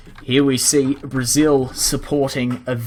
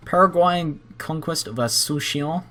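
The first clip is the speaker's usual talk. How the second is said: Asuncion said the French way, nasal final on-cion, voice lifted higher; accidental French accent on Asuncion, pitched up; slip into French accent; 5 semitones higher than usual. Real, not acted. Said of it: "I said that with a French accent".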